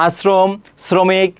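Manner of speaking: আশ্রম, শ্রমিক slowly, with an s sound before the r; sibilant shown. Shown as a demonstration. Teacher demonstrating the sibilant, আশ্রম and শ্রমিক slow with an s sound. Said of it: "ছয়ের মতো উচ্চারিত হলে".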